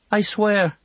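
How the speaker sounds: put-on a frightened boy promising his mother; boy's oath. A narrator's reading. Boy swearing to Mam.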